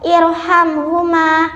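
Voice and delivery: slow "irhamhuma" with a thick r; "irhamhuma" recited with heavy ra; tafkhim. Shown as a demonstration. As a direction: make the r of "irhamhuma" heavy and dark. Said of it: "ro yang dibaca tafkhim".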